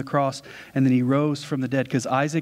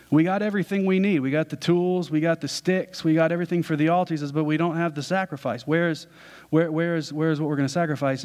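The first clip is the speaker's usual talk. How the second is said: lightly voiced boy, a bit higher and quicker; a hint of a curious son asking his dad; young Isaac; 4 semitones higher than usual. Isaac asking his father where the sacrifice is, lightly voiced boy.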